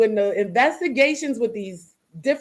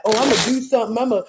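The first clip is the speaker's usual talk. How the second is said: a light, hammed-up mock of eager fake friends; mocking fake helpers; faster than usual. Mimicking people at her son's party offering help, lightly mocking. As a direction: parrot their empty promises, a bit fast. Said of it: "all of these people was acting like".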